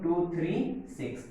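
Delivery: "टू थ्री सिक्स" as separate digits, pause before "सिक्स"; teacher spelling out "टू थ्री सिक्स" digit by digit; digit-by-digit reading. Shown as a demonstration. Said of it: "इसको कैसे पढ़ेंगे हम लोग".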